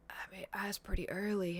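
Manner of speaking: hushed, whispery reluctant reply; hesitant. Retold or imitated. Hosts answering a request for an airport ride, hesitant. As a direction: imitate a reluctant answer under the breath.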